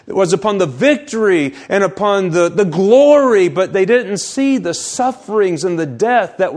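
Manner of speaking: emphatic, urgent sermon delivery; forceful preaching. Real, not acted. Preacher warns the congregation about wrong emphasis in reading Scripture, forceful preaching. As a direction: drive the point home in full pulpit voice.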